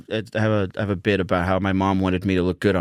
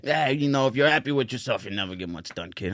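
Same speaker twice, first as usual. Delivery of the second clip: put-on Massachusetts local handing out advice, Boston accent; casual Boston-accent impression. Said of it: "sounds like somebody from Ma-, Massachusetts".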